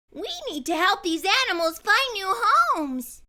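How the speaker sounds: put-on high, firm girl's voice; lightly voiced determined girl. A narrator's reading. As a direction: say it with resolve. Harper resolving to help.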